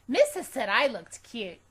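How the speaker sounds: put-on high, slow, loud little girl; smug and pleased with herself; Junie B voice. A narrator's reading. Girl agreeing with teacher that she's cute, high and slow. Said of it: "I said".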